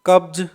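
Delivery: "कब्ज" closing on a voiced z/j after b; Z sound at the end. Shown as a demonstration. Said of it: "last में जय". ("कब्ज" के अंत में ज की आवाज़)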